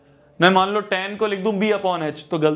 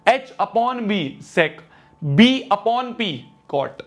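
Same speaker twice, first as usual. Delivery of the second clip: very slow, spaced-out recitation; slow drill; much slower than usual. Shown as a demonstration. Teacher slowly reciting the ratio rule for students. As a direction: spell the rule out word by word. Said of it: "teacher drills the rule".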